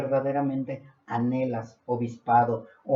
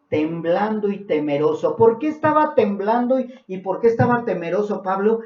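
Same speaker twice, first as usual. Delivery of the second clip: raised, higher rhetorical questioning; emphatic preaching; 6 semitones higher, 5 dB louder than usual. Real, not acted. Preacher asking why Paul trembled, emphatic. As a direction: throw the question out to the room.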